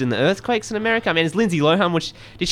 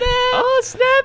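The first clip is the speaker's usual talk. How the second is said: mock sass; 4 dB louder than usual. Echoing Oh snap, much higher.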